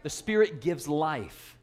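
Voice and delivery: "The Spirit gives life" said very slowly, each word weighted; a slow, deliberate pulpit declaration; slow emphatic. Shown as a demonstration. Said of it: "Everybody say spirit".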